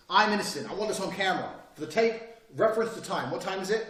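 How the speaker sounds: confident innocence, said for the record; firm innocent claim. Shown as a demonstration. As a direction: own the room as you say it. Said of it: "They're different things".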